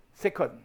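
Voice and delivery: « Sécon » dit sé-con, en deux syllabes nettes; détacher « Sécon » avec la finale nasale; prononciation choisie. Shown as a demonstration. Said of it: "on va le prononcer comme ça". (prononcer « Sécon » comme un nom sympa)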